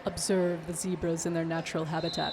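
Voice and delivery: low, hushed nature documentary narration; David Attenborough. Pretend. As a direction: whisper it like a wildlife film. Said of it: "commentate like we are David Attenborough".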